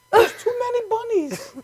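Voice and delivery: put-on high-pitched Indian accent. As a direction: exclaim it in an imitated Indian accent. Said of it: "I love doing that accent".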